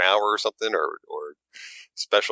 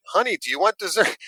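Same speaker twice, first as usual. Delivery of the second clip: husband relaying it louder; 12 semitones higher than usual. Retold or imitated. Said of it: "the husband's like".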